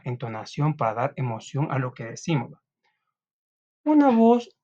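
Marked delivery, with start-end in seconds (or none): 3.8-4.5 much higher and louder, projected; a booming demo of a projected voice. Shown as a demonstration. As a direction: throw the voice out to the back of the room. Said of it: "proyectada relaja seguridad".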